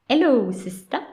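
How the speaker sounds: mock Cockney evil twin; mock Cockney accent. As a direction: imitate the evil twin's Cockney greeting. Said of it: "giving her that accent".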